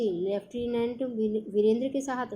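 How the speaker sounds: mild startled delight, rising at the end; a touch of glad surprise; surprised joy. Acted. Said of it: "चौंक कर खुशी से". (हल्की खुशी भरी हैरानी)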